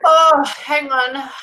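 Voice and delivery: drawn-out whisper, slow. Real, not acted. Medium asking for a moment in a slow whisper. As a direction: whisper it slowly while listening.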